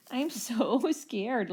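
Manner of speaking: slow, laughing mock fear; laughing mockery. A narrator's reading. Third dino mocking the Rex, laughing and sarcastic. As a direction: laugh through a fake scared line. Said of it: "laughed the third little dino".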